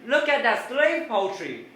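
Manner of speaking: loud, slow shout to someone in front; high, stretched-out excited yell; screamed call ahead. Retold or imitated. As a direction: holler it up the road, drawing out the words. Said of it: "I scream up to Michael".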